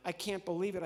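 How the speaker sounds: ordinary delivery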